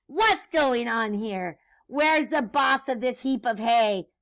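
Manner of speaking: emphatic mock-indignant demand; witch's screech. Witch demands the farm's boss, mild mock screech. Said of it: "Grinch screeched".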